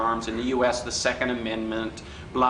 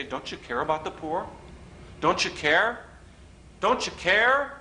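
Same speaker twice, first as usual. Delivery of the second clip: liberal pleading; 4 semitones higher than usual. Retold or imitated. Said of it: "they still look at you and say".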